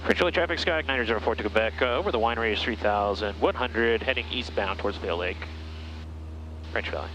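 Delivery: clipped radio call to traffic; pilot over the radio. Real, not acted. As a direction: read it like a position report.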